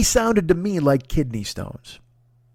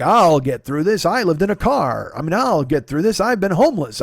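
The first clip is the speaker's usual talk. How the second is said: mildly stubborn toughing-it-out voice; jut-jawed bravado; 3 dB louder than usual. Retold or imitated. Man insisting he'll get through it, mild jut-jawed bravado. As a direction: jut the jaw a touch, stoic. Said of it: "I've always done the jut jaw thing".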